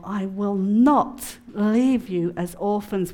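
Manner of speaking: slow, weighty scripture line; slow solemn verse; solemn scripture quote. Acted. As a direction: let each word of the promise land slowly. Quoting the key scripture.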